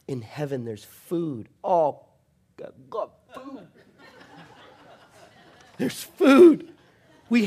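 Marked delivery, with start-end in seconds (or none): 1.6-7.5 laughing. Real, not acted. Laughs mid sermon about food.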